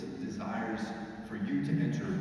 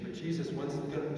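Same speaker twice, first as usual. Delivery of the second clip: impatient complaint; 4 semitones higher, 3 dB quieter than usual. Acted. Impatient person whines to Jesus.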